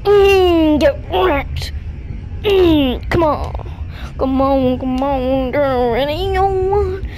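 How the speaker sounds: tense, loud taunting; scared horror game streamer. Real, not acted. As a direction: psych yourself up against the monster.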